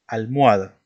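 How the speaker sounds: "almohada" said as "almoada", gliding over the silent H; silent middle H. Shown as a demonstration. Teacher showing students the silent H inside "almohada". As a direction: say "almohada" with no sound where the H is. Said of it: "una palabra con H al medio".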